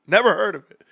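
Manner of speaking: lightly voiced wife playing dumb; mock innocent wife. Wife feigns ignorance about toothpaste, mild mock innocence. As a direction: answer like a wife who has never heard of toothpaste. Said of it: "Here come noisy Korax".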